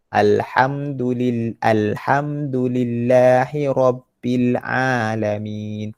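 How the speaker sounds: slow, measured Quran recitation; teacher's drawn-out model verse. Shown as a demonstration. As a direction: recite with long held vowels.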